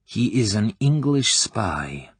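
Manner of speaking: a deliberate, slow delivery of the news; slow reveal. Acted. Klebb revealing the target to the girl, slowly. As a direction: drop the bombshell slowly.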